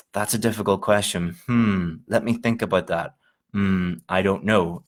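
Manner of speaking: mock a student stalling with nothing to say. Shown as a demonstration. Teacher imitating a student stalling on a hard question, hammed-up hesitation. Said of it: "You wouldn't believe the number of students who say".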